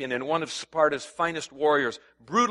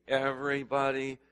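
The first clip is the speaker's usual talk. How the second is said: call and response; slower than usual. Shown as a demonstration. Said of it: "say with me".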